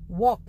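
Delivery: वॉक with an open "aw" and no L; teacher's isolated वॉक, L silent. Shown as a demonstration. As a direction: model वॉक leaving out the L. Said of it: "इसमें L silent है".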